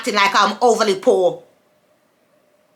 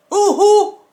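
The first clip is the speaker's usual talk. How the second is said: indignant outburst; 9 semitones higher, 4 dB louder than usual. Real, not acted. Angry rhetorical questions to ex.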